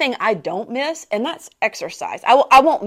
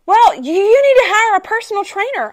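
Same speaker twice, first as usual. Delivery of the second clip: high, louder earnest advice; helpful friend; 10 semitones higher, 6 dB louder than usual. Retold or imitated. A friend advises hiring a trainer, high earnest voice. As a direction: suggest it earnestly. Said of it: "one of them says".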